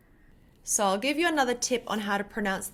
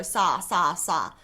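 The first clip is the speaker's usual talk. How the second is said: rushed practice; 4 semitones lower, slower than usual. Shown as a demonstration. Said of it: "like this because you're not thinking".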